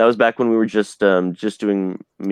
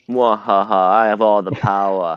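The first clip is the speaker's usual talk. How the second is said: sneering panto villain; slower than usual. Pretend. Gloating over seeing the books first.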